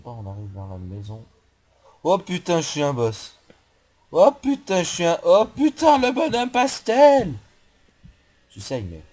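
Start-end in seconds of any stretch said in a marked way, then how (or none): 2.0-7.3 high, loud cries of triumph, voice climbing; real gamer whoop, pitch soaring and slowing at the end; excited yelling. Real, not acted. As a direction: shout with joy at a big win. Gamer reacts to winning fight.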